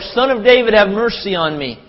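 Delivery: loud, high retold plea; crying out. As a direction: cry out over those hushing you. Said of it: "he cried out all the more".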